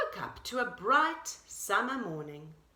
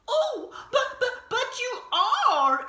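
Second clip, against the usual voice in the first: very high, louder rabbit voice, laughing; insisting rabbit; 13 semitones higher, 7 dB louder, slower than usual. A narrator's reading. Rabbit insists Deer was brave, high and eager. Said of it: "insisted Rabbit".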